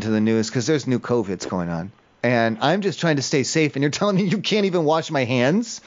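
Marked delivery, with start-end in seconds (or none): 3.9-5.8 sharp, much higher "Seriously?"; outraged disbelief. Acted. Caller to hotel manager, hammed-up disbelief. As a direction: throw it up high in mock outrage.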